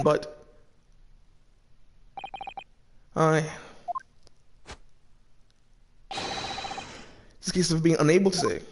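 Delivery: a hint of a sly Irish witness, soft and knowing; lightly voiced Irish witness. Sly witness hinting to the judge, lightly Irish-voiced. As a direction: play the coy witness hinting at a secret. Reads witness lines in character.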